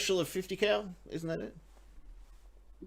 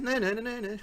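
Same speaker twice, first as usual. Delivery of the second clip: mock playground taunt, pitched up; 4 semitones higher, 5 dB quieter than usual. Pirate running off with the stolen things, taunting. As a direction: tease lightly as you run away.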